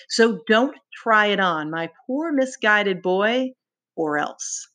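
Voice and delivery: slow, a touch of menace, schoolmaster style; lightly voiced stern schoolmaster warning. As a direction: schoolmaster threatening a misguided boy. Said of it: "spoke in the voice of a schoolmaster".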